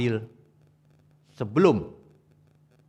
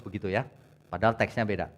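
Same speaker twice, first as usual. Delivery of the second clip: ordinary delivery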